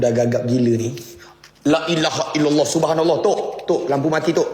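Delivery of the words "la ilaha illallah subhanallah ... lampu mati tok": higher, startled prayers as the lights die; startled fearful prayer. Real, not acted. Lights go dead in the haunted house, startled fearful praying. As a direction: gasp the prayers out in fright.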